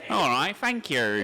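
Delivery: slow, hammed-up Cockney "thank you" with an F; exaggerated Cockney. Shown as a demonstration. Comic demoing his stage voice, slow exaggerated Cockney. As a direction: drawl it out, Cockney style. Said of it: "over-exaggerated Cockney voice".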